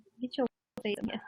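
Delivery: fast, soft, urging whisper.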